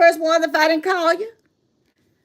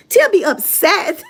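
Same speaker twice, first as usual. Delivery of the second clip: laughing; 4 semitones higher, slower than usual. Real, not acted. Repeats louder laughing.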